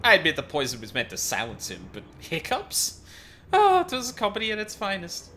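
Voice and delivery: hammed-up smug rogue; gloating villain. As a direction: relish the victims' misery.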